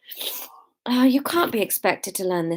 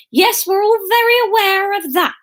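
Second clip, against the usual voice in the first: high, louder peevish put-down; snippy; 12 semitones higher, 5 dB louder than usual. A narrator's reading. Missus White bested by her arch rival, high and snippy. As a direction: snip it at your rival. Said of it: "snipped Missus White".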